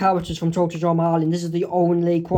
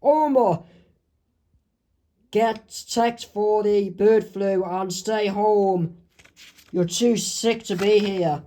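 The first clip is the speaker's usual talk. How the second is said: stern boss voice; 3 semitones higher, slower than usual. Acted. Boss sending sick Homer home.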